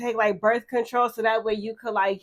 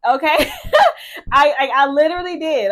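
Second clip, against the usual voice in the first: giddy laugh mid-sentence; 4 semitones higher, 5 dB louder than usual. Real, not acted. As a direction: laugh it out, half embarrassed. Laughing at her own news.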